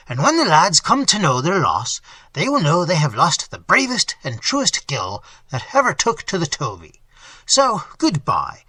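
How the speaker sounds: mildly boisterous host bragging of his ship; lightly voiced blustering innkeeper. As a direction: scoff like a proud sea dog, a touch loud.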